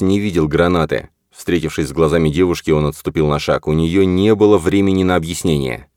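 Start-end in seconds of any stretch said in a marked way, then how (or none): none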